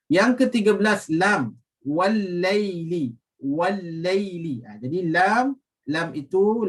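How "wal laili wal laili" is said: Wal-laili slow, lam merged and held; doubled lam. Shown as a demonstration. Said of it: "lam at-ta'rif bertemu dengan huruf lam". (bacaan Wal-laili dengan lam bertasydid)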